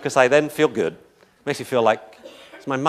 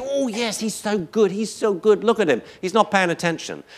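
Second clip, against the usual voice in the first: much higher, sing-song doggy praise; gushing praise; 9 semitones higher than usual. Retold or imitated. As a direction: lay the praise on thick to a lunging dog. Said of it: "I say".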